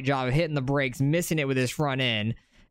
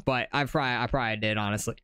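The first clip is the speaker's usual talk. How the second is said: hiccups; 3 semitones lower, faster than usual. Real, not acted. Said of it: "Excuse me, hiccups".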